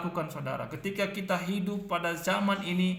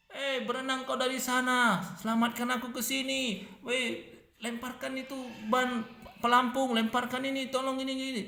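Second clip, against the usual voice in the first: higher, bossy barking of orders; preacher mocking a bossy drowning man, higher; mock demanding victim; 5 semitones higher than usual. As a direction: ham up a drowning man giving instructions. Drowning man bossing rescuers, mocked.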